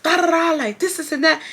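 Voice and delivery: high retold rant at ordinary volume; high-pitched mock yell; mock screaming. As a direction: imitate a friend screeching accusations. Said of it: "So she's screaming".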